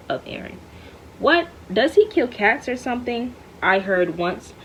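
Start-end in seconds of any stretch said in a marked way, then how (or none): 1.2-3.3 sudden high, loud "What?" then settling; incredulous question. Acted. Reading the narrator asking Enzo, incredulous. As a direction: jump up in disbelief at the rumour.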